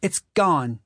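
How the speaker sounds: put-on high ragged old woman voice; snappy worn-out mother.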